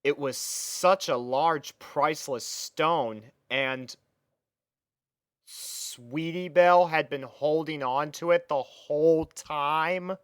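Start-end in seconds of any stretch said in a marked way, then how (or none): none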